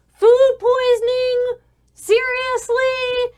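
very high, slow incredulous shout; exasperated yelling. Acted. Man behind the door hearing of food poisoning, exasperated. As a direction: stretch each word in loud disbelief. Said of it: "angry, it's exasperated".

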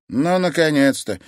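a wry grandmother's snort; scoffing. Acted. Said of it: "хмыкнула женщина".

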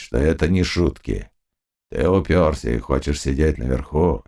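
low, slow threatening cossack voice; low, slow warning cossack. A narrator's reading. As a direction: warn him in a low, slow voice. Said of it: "говоря". (низким медленным голосом, с угрозой)

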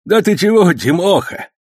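put-on high, loud old man's voice, overjoyed; an old uncle beaming at his nephew; delighted old man. A narrator's reading. Old uncle gladly vouching for his nephew, high and loud. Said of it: "обрадовался появлению племянника Сан Саныч".

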